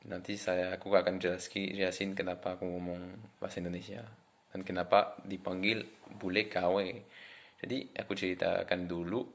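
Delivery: French accent in Indonesian; foreigner speaking indonesian. Real, not acted. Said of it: "orang Perancis yang bisa ngomong bahasa Indonesia".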